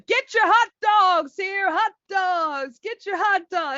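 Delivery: loud, high vendor call; stadium vendor hawking. Retold or imitated. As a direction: hawk hot dogs to the crowd. Hot dog vendor calling out.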